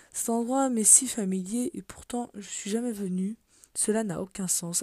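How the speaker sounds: measured story-style read-aloud; lightly dramatic journal narration. Acted. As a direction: read out a diary page with deliberate phrasing. Reads a journal page aloud.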